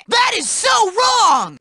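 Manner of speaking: drawn-out, high outcry; indignant outcry. Acted. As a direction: cry out in slow indignation. Disgusted outcry at an offence.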